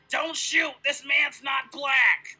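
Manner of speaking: loud, hammed-up call; exaggerated calling out; mock shouted plea. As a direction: yell it out, stretching the end. Acts out a panicked call.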